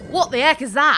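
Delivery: loud, startled outburst; startled alarm. Acted. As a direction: blurt it out in shock. Giant creature suddenly appears.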